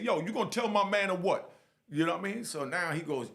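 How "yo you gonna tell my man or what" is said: mildly aggressive retold demand. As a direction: press him a little louder, impatient for an answer. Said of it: "got aggressive and said".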